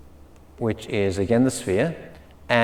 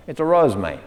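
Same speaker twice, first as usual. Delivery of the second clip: Australian accent. Shown as a demonstration. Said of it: "if you're Australian".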